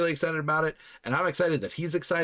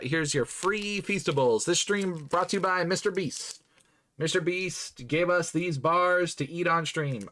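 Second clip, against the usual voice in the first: mock sponsor read; 2 semitones higher than usual. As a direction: announce it like a paid endorsement.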